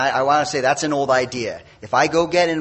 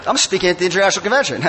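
fast, raised, laughing brag; mock bragging; 5 semitones higher, 4 dB louder, much faster than usual. Speaker laughing at his own pompous excuse, fast mock boast. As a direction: rattle it off like a pompous big shot.

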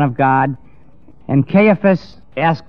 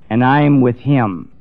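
slow, emphatic mock boast; retold proud vow, each word drawn out; proud declaration; slower than usual. Peter imagined proudly declaring loyalty.

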